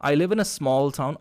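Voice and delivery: slow, with "small" highlighted; "I live in a small town" said slowly with "small" picked out; stress on small. Shown as a demonstration. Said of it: "तो आपको बोलना कैसे है". (स्मॉल पर ज़ोर देकर धीरे)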